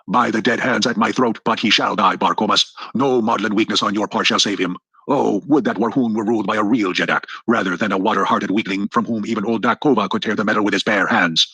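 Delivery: a lightly voiced chieftain, scornful and defiant; scarred old chieftain. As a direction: sneer at the weak young ruler, understated. Dak Kova rages at his ruler.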